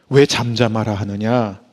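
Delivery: ordinary talk, nothing marked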